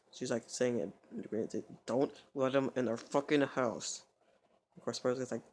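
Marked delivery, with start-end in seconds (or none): 1.9-4.0 slow, voiced, drawn-out demand; emphatic warning. She repeats not to let him in, emphatic. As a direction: spell out the warning with drawn words.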